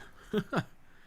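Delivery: breathy high-pitched giggle; a quick airy laugh. Real, not acted. Laughs at his own item.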